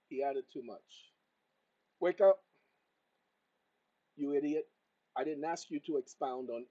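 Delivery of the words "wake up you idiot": loud, irritated wake-up with an insult; annoyed shout. Real, not acted. Scolding his phone assistant that added too much, angry shout. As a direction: snap at the machine.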